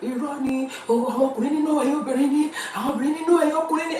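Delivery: high, loud, quickening chorus of objection; imitated protesting crowd. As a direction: mimic everyone arguing back at once. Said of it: "Everybody was like".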